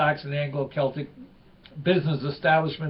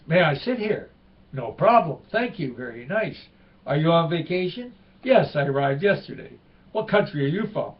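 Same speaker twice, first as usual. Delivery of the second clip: higher, lively joke telling with a light French Canadian lilt; joke read with voices; 3 semitones higher, 5 dB louder than usual. Acted. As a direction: act out both tourists in the café.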